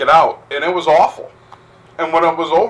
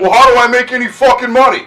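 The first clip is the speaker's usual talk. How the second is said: mock protest; 9 semitones higher, 5 dB louder, faster than usual. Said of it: "bar owner quoted".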